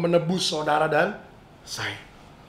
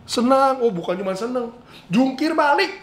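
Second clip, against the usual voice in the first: excited joy; 5 semitones higher than usual. Acted. Imagining driver's joy.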